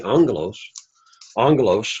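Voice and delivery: "angelos" accented on its first syllable; stress on first syllable. Shown as a demonstration. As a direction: lean on the opening "an" of "angelos". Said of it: "find the accent on".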